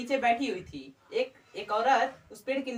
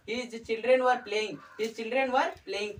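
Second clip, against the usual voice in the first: slow dictation; much slower than usual. Shown as a demonstration. Teacher dictating example sentence twice.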